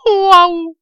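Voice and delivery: loud, high gasped "waouh"; panting. A narrator's reading. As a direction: blow it out after strong drink. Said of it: "dit-il, haletant". (haletant, exclamation aiguë)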